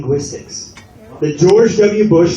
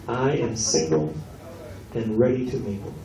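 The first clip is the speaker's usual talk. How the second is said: mock Jamaican patois; 6 semitones lower, 10 dB quieter than usual. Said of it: "translate it to Jamaican patois".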